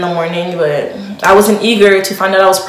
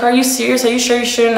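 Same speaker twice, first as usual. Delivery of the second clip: retold indignant disbelief; 4 semitones higher, faster than usual. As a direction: mildly mimic an annoyed friend questioning you. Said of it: "straight up pissed".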